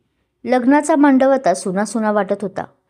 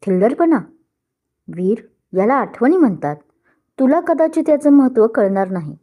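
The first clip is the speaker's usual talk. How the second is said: mocking, raised and higher; sarcastic reply; 3 semitones higher than usual. Rival mocking the groom's outburst, sarcastic and raised. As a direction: toss the word back with sarcasm. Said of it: "उपरोधिकपणे उत्तर दिलं".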